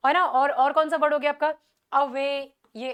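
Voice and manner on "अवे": "अवे" with the beat on वे; light अ, weighted वे in "अवे"; stress on WAY. Shown as a demonstration. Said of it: "stressed वे पे हो रहा है".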